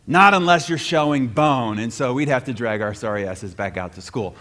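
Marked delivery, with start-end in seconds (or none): 0.1-1.8 mock yell, a bit louder; retold dad's yell. Father yelling to sick kids from across the house, mock yell. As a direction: imitate dad hollering across the house. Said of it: "he would yell".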